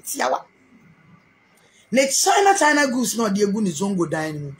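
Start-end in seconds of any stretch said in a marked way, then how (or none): 1.9-2.9 much higher shout on China; sudden shout. Real, not acted. Ranting about the rival's goods, a sudden high shout. Outburst in rant.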